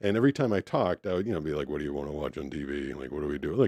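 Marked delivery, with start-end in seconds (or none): 1.7-3.5 very low, flat, sleepy, tired grumble. Retelling talking to a date late at night: imitating a tired grumble. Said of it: "kinda tired, just kind of grumble".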